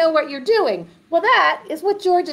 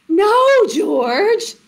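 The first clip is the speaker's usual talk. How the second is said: high, emphatic refusal; exasperated storybook mom; scolding mother; 9 semitones higher, 5 dB louder, much slower than usual. Acted. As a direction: correct the puppy, voice pitched up. Mother corrects George in story.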